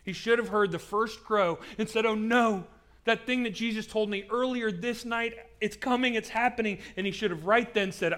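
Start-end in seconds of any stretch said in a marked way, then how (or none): 2.0-6.8 higher-pitched, mildly panicked dawning; alarmed realization. Acted. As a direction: realize in alarm what is coming. Imagined Peter realizing in alarm.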